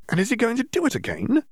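brisk know-it-all, lightly voiced young witch; lecturing Hermione. Hermione lecturing Dimitri on transfiguration, lightly voiced. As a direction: explain it like the cleverest girl in class.

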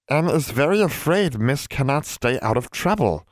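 high, small elf voice; house elf voice. Acted. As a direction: speak as a timid house elf.

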